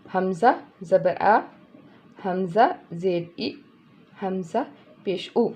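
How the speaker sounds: slow, spelling out हमज़ा ज़बर आ, हमज़ा ज़ेर ई, हमज़ा पेश उ sound by sound; slow spelling drill. Shown as a demonstration. Teacher spelling hamza vowels slowly for students, a slow drill. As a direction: spell each vowel sign out slowly for the learner. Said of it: "फिर हम इसको कैसे पढ़ेंगे?".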